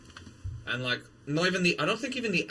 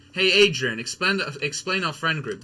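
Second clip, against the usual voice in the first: meme voice; 3 semitones higher, 6 dB louder than usual. Retold or imitated. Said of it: "surely you know about".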